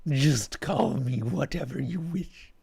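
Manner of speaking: exasperated sigh. Acted. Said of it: "With an exasperated sigh".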